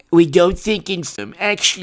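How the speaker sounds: put-on villain impression; Doctor Evil. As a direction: imitate a campy film villain. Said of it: "Doctor Evil voice".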